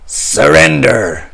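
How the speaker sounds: crying out. Acted. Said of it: "cried Pegleg".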